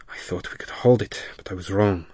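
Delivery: fast hissing monster whisper; sibilant hiss. Acted. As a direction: hiss it through needle teeth. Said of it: "his voice a sibilant hiss".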